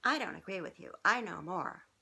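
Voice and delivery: mock snotty comeback; taunting. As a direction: play the know-it-all child. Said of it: "stick your tongue out at somebody and say".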